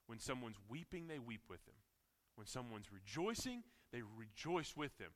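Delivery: soft, gentle sermon voice; tender. Acted. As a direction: speak it softly and tenderly.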